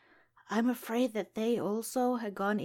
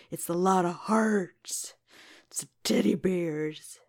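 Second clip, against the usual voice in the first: whispering; 7 dB louder than usual. Retold or imitated. Whispered list of the gift.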